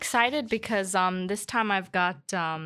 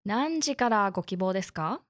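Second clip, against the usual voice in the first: customer service voice. Acted. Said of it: "I love your beautiful N H K Japanese".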